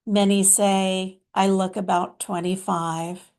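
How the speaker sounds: lightly voiced mystical master, measured phrases; Babaji. Channeled master addressing followers, lightly put-on deliberate sage voice. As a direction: speak as a loving spiritual teacher, pausing often, leaning on key words.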